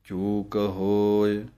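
slow, measured scripture reading; devout, slow recitation; slow verse recital. Acted. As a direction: recite it with care and pauses.

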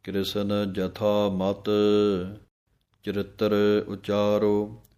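slow, measured scripture reading; devout, slow recitation; slow verse recital. Acted. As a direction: recite it with care and pauses.

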